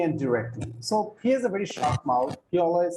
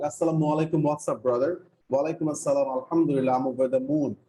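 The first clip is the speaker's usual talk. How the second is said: dialogue read aloud; 3 semitones lower, faster than usual. Shown as a demonstration. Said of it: "So let me read that dialogue".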